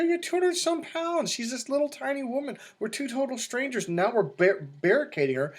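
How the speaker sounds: retold exasperated scolding; exasperated explaining. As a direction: spell it out for the clueless buddy. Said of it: "I go".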